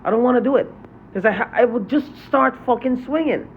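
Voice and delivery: flaring up as he talks about fighting back; angry outburst. Real, not acted. Venting to viewers about the people who hurt him, angry. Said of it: "Sorry I'm so angry".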